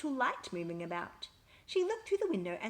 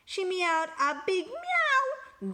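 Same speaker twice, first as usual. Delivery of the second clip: big meow; 9 semitones higher, 5 dB louder, much slower than usual. A narrator's reading. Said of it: "very sudden and very loud".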